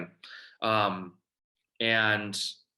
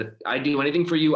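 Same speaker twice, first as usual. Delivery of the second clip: retold stern mom; 4 semitones higher, 6 dB louder, faster than usual. Mom lays down terms on phone.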